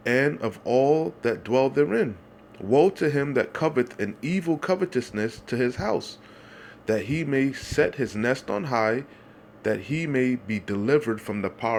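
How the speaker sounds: the voice lifts on the woe; rising preaching fervor. Real, not acted. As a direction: build the verse to a climax. Preaching scripture climax.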